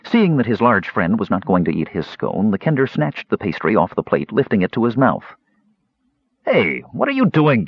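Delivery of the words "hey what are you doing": higher-pitched, indignant call-out; mild yell. A narrator's reading. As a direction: protest sharply without a full shout. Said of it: "Caramon yelled".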